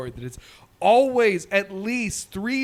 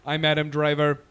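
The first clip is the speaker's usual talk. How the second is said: imitating robot voice; 3 semitones lower than usual. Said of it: "the robot is malfunctioning".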